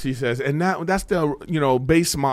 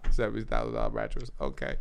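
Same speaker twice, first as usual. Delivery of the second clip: muttered under the breath, much softer; inner disbelief; 12 semitones lower, 9 dB quieter than usual. Retold or imitated. Thinking to himself at the mattress store, hushed disbelief. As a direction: swallow the shock quietly. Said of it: "'Cause I'm like".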